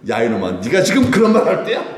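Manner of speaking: crude rebuke played for laughs; mock rough scolding. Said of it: "저같이 이렇게는 말 못하고요". (익살스럽게 버럭 꾸짖는 말투)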